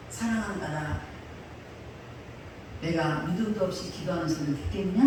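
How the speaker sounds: low, soft, solemn divine voice; God's voice. Retold or imitated. Preacher voicing God to her, low and solemn. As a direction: speak as God, low and hushed.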